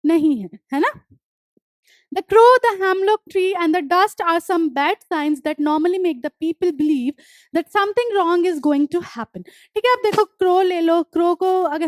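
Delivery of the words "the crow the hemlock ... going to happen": deliberate dictation pace, each word spaced; slow textbook reading. Acted. Teacher reading the poem notes aloud to students, slow and deliberate. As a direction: read the line out slowly for the class to copy. Reads English textbook line slowly.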